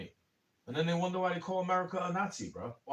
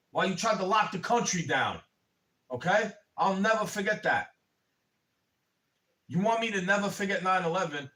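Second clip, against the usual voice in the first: heated rant; 3 semitones higher, 3 dB louder than usual. Real, not acted. Heated accusation rising.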